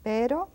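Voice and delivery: Pero with a single light tap on r; Pero, r as a quick soft flap. Shown as a demonstration. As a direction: tap the r in Pero once, gently. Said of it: "quite slow and quite softly".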